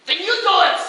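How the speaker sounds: loud, high snap; mild hammed annoyance; irritated retort. Annoyed performer challenging Lenny, loud.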